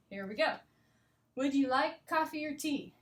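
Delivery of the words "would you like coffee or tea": "coffee or" linked with a reduced "er"; natural connected speech. Shown as a demonstration. Teacher reading the cafe dialogue naturally, connected speech. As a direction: offer it higher, OR shrunk to "er". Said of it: "hear what it really sounds like".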